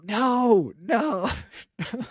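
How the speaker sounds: high, laughing refusal; a disbelieving laughing no. Retold or imitated. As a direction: turn him down through a laugh. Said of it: "my wife and I are like".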